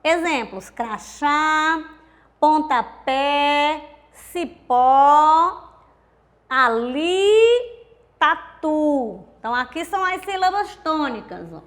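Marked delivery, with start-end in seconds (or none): 0.7-9.2 crachá, pontapé, cipó, ali, tatu: each final syllable stretched long; teacher drawing out cra-CHÁ, pon-ta-PÉ, ci-PÓ, a-LI, ta-TU; stress on last syllable. Shown as a demonstration. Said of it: "quando a tônica é a última sílaba".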